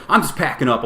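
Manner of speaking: mock a miffed quitter; huffy. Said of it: "this guy starts getting huffy".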